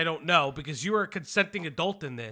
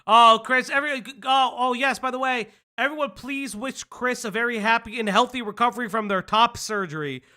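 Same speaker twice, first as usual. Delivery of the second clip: high, loud, overly sweet gushing; gushing high mock voice; 6 semitones higher, 6 dB louder than usual. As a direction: squeal it like a fake fan. Mocking sappy well-wisher.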